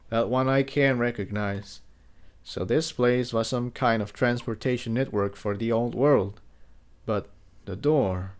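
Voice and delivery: lightly voiced stallion, hushed in wonder; Jigsaw. Jigsaw asking Tiptoe about the ruins, softly hushed.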